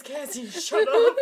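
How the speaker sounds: loud, high retold telling-off through laughter; laughing, hammed-up hushing; laughing mock scolding. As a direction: imitate a mortified mom while cracking up. Mom scolds her, both laughing.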